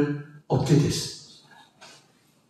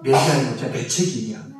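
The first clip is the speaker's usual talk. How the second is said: gentle apology; 6 semitones lower than usual. Retold or imitated. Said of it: "찔러대고 아프게 했던 그 말이".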